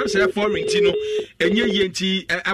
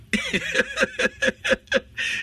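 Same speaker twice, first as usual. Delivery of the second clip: high, breaking burst of laughter; big laugh. Real, not acted.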